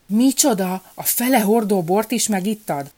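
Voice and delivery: a king scolding his courier in disbelief; outraged royal accusation; angry king. A narrator's reading. King confronts the thieving courier.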